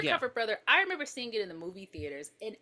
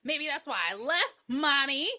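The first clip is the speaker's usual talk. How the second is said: put-on higher-pitched guilt-tripping kid; lightly voiced accusing child; wounded child; 5 semitones higher than usual. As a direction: needle mother like a hurt little boy. Voicing the child guilt-tripping his mother.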